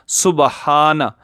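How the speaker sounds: सुबहाना with ba voweled, not silent; wrong reading. Shown as a demonstration. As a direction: slowly read सुबहाना as su-ba-haana, the wrong way. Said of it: "जबकि ये गलत है". (गलत उच्चारण सुबहाना)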